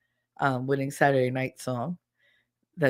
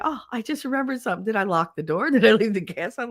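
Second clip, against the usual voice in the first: worried squirrel; 5 semitones higher, faster than usual. Retold or imitated. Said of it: "they're stopping like".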